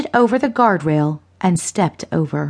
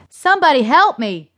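high-pitched cry for help; screaming plea; 8 semitones higher than usual. A narrator's reading. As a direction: call desperately for anyone. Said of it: "Lester screamed".

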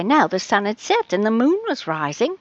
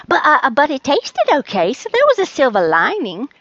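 stammered start, then hurried; excusing cat; 4 semitones higher, 4 dB louder than usual. Acted. Charlie justifies himself to Rose, hurried stammering excuse. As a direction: blurt out the consolation, higher and quicker.

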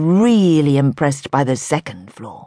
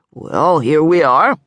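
put-on slow, gentle older man; gentle elderly salesman presenting the ring; low and gentle; slower than usual. A narrator's reading. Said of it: "his voice low and gentle".

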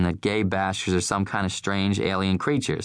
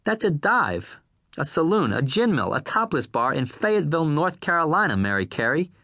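raised, incredulous outburst; exasperated rant; 9 semitones higher than usual. A narrator's reading. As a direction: lose patience and let it rip. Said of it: "Irv's voice rose".

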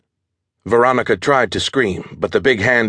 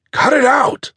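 rough male thug voice; gruff order from an attacker; husky man voice; 3 dB louder than usual. Acted. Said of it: "said a husky male voice".

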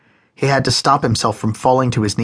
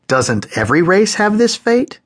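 lame venture; 10 semitones higher, 3 dB louder than usual. A narrator's reading. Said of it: "Moses ventured, lamely he thought".

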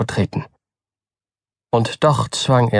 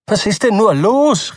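agitated cry; 10 semitones higher than usual. A narrator's reading. Upset Button demands what's wrong, agitated cry. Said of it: "rief Mister Button aufgebracht".

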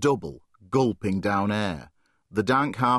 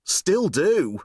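awed admission; 7 semitones higher than usual. Acted. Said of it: "excitement and fear in his son's voice".

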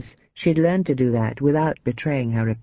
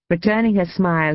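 plain reading voice

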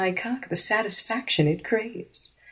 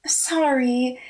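purring; 4 semitones higher than usual. Acted. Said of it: "Ashley purred".

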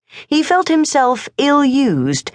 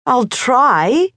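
high, small miserable voice; a boy hoping for the best; 7 semitones higher than usual. A narrator's reading. Morris promises his father, high and miserable. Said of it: "miserably hoping for the best".

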